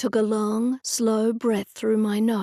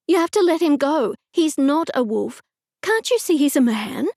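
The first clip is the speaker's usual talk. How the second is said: urgent pleading; 5 semitones higher, 4 dB louder than usual. Acted.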